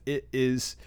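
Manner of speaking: high whispered awe; overcome, barely getting the words out; high, hushed thrill; emotional whisper. Real, not acted. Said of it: "I'm getting really emotional about this".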